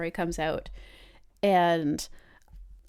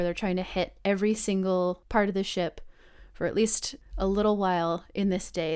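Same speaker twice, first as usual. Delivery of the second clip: normal talking voice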